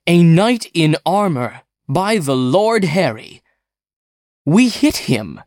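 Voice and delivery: high, eager exclamation; excited. Acted. Engineer marvels to his fireman, high and excited. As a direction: blurt it out, thrilled and amazed.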